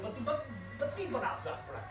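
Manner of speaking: soft words through laughter; laughing. Real, not acted. Laughing while rolling a roti.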